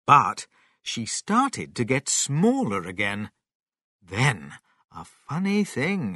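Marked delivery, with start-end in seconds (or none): none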